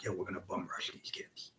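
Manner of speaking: whispered plan to a partner; conspiratorial whisper in the ring; secret whisper. Retold or imitated. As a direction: hush it so the other team can't hear.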